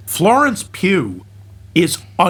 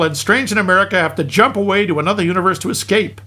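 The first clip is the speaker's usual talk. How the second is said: comic film recap. Acted. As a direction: lively recap narration with punched asides. Reads a hammed-up film recap.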